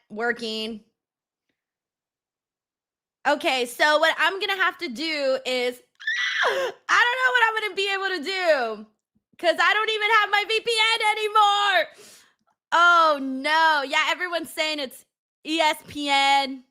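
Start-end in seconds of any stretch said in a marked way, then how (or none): 3.3-13.8 raised, higher, panicky frustration; frustrated shout. Real, not acted. Panics as the stream keeps failing.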